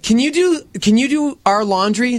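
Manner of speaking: imitating Chrissy. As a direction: mimic a frazzled friend begging for help. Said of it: "That's exactly how she said it".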